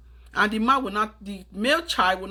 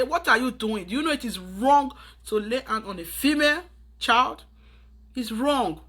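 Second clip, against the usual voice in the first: put-on scolding boy; 3 semitones higher than usual. Shown as a demonstration. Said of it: "scold the boy immediately and say".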